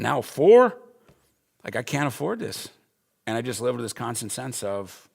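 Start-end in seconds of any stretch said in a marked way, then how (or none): 0.0-2.7 panicked disbelief. Retold or imitated. Panic over a third child.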